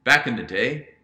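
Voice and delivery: put-on light British accent, quoting a client. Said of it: "he says this in a British accent".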